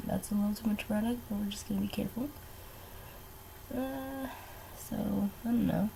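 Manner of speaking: quick whispered self-reminder; fast whisper. Real, not acted. Warning herself about too much brow product, fast whisper. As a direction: mutter it to yourself, hushed and quick.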